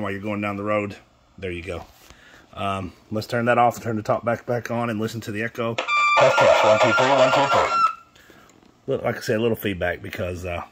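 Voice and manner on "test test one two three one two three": mic check. Real, not acted.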